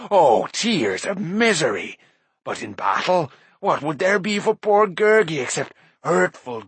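slow, whiny, groveling beast voice; fawning creature. A narrator's reading. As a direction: grovel to the mighty lords. Gurgi's creature voice.

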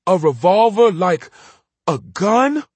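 put-on high, startled boy asking; surprised. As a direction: gasp out the question, amazed. Boy startled by gun talk.

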